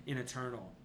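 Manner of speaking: a hint of an ancient undead lord waking; ancient rasping undead king. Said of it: "you know he says".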